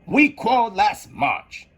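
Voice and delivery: high and slow Hatter. A narrator's reading. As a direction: speak it as the Hatter, slowly. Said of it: "replied the Hatter".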